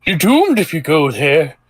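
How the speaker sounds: put-on ominous old man warning. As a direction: croak it like a doom-saying old man. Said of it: "says, uh, an old man passing by".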